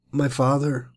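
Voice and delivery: hesitant, halting, after a long pause; faltering. Shown as a demonstration. Isaac calling to his father on the mountain, faltering. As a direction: let the words "My father." come haltingly, as if unsure. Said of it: "You can almost hear Isaac's faltering words".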